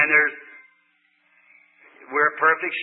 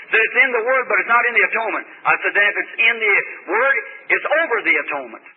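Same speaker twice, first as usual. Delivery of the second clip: loud, raised preacher's argument; forceful preaching; 5 semitones higher, 4 dB louder than usual. Acted. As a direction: drive the point home from the pulpit.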